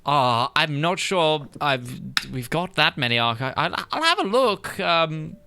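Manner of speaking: put-on a prickly old librarian, puzzled; crotchety old librarian.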